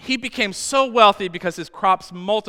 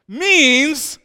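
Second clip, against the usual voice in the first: laughing; 9 semitones higher, 9 dB louder than usual. Real, not acted. Laughs mid-sentence while preaching.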